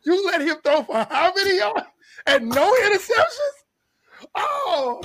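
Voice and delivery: high, loud incredulous cry; can't believe the numbers; disbelief. Acted. Mock disbelief at the team.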